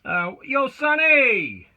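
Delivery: loud call down the stairs; calling from far away. Real, not acted. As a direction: shout it down to someone far off. Calling down to Sonny below.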